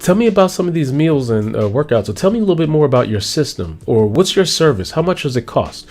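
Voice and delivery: hooked listener. Acted. Listener excited by pitch.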